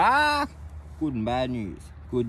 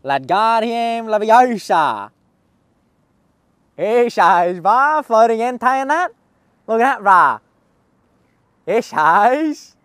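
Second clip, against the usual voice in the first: eshay slang; 5 dB louder than usual. Acted. Showing off Eshay bar, eshay voice.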